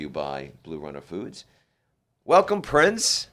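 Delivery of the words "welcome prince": slow, high, drawn-out welcome; big radio welcome, stretched out; excited announcer welcome. Real, not acted. Host welcomes guest on air.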